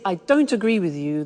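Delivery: firm, blunt contradiction; aggressive disagreement. Shown as a demonstration. Teacher shows students a phrasing to avoid, quite aggressive. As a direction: disagree bluntly, fuller-voiced. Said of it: "that's quite aggressive".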